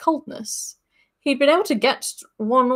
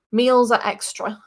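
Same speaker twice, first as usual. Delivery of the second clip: cold. Acted. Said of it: "said the innkeeper coldly".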